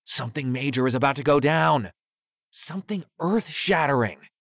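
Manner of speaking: high-pitched, worked-up conspiracy rant; hyper cadence. A narrator's reading. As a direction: keep it hyper, pitch jumping up. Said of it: "continued in his hyper cadence".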